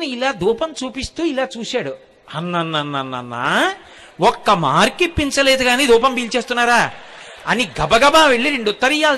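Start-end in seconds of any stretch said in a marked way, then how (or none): 2.3-6.9 mock indignation. Student scolding the idols for smelling the incense, mock outrage. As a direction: scold the idols as if caught cheating.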